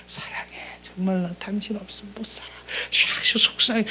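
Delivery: soft fast whisper of "사랑해". Shown as a demonstration. Pastor whispers to a spouse how to say 사랑해. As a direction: breathe it close into the ear. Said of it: "이렇게 속삭이지 않겠습니까?".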